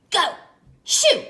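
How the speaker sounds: loud shoo; loud grumpy leprechaun shooing; shouting. Acted. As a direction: shout the dog away. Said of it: "I shouted".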